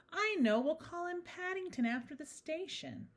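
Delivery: high-pitched, pleased suggestion; excited idea. A narrator's reading. Mrs Brown naming the bear, excited. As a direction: announce the idea high and eagerly.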